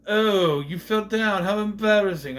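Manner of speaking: high, loud, gushing dog voice; squeaky concerned mock dog; fretful worried dog. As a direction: fuss over them like an anxious puppy. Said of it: "Dog's like".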